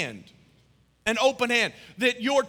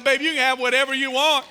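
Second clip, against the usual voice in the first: smitten dad; 3 semitones higher, 6 dB louder, faster than usual. Retold or imitated. Dad's smitten reply to baby.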